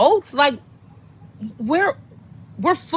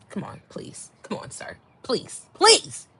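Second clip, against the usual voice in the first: pleading; 6 dB quieter than usual. Retold or imitated. Pleading to get off.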